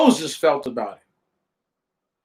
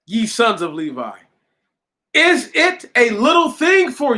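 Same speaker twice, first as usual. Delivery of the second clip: emphatic pulpit Bible reading, raised pitch; scripture reading; 8 semitones higher than usual. A narrator's reading. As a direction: read the verses out with measured, preacherly force. Reads scripture aloud to congregation.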